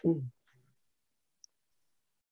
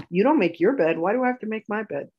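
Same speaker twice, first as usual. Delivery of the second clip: mock yell at mom, a touch louder; retold scream; 5 semitones higher, 3 dB louder than usual. Girl yelling at her mother over making the bed, mock yell. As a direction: loudly protest making the bed.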